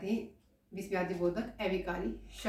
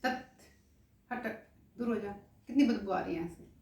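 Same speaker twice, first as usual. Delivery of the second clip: disgusted. Shown as a demonstration. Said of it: "जैसे अपने आप ही कहते हैं".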